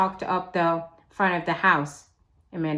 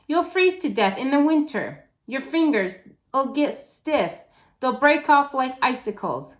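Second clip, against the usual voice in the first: put-on higher, heated girl's voice; girl arguing; 5 semitones higher than usual. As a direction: scare him into staying.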